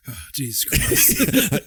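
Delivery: exasperated groan. Pretend. Exasperated cop quote.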